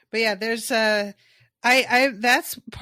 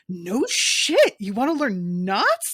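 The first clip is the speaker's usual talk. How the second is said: excited knot instructor; 2 semitones higher, 6 dB louder, slower than usual. Retold or imitated. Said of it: "who is just like".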